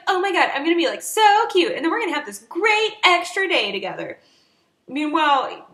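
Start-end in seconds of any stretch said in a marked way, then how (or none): 0.1-4.2 mock giddy Kayla. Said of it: "is like".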